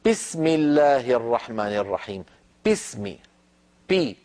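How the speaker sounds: بسم said with a weak, breathy ba, بي drawn like p; non-Arab accent. Retold or imitated. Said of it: "من بعض غير العرب من يقول". (تقليد نطق أعجمي للباء)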